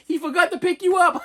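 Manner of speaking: high, laughing mock-mom voice; mother laughing. Mother explaining dad forgot him, high and laughing. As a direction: tease through hammed-up laughter. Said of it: "She's like".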